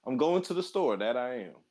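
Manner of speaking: high, earnest samurai catchphrase; Kenshin dub voice. Retold or imitated. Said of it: "how does he say it?".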